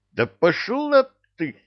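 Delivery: high, shouted brush-off; shouted curse. Acted. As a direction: yell it in exasperation. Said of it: "выкрикнул генерал".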